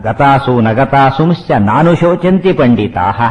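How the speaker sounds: slow, measured Sanskrit recitation; verse recitation. Shown as a demonstration. Teacher quoting Krishna's first words to listeners, slow recitation. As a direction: draw out each syllable of the verse.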